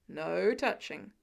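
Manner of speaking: put-on low, slow scolding of the kid; a lightly voiced stern Tony, no touching. Tony scolding injured Peter, low and slow. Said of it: "the man scolds".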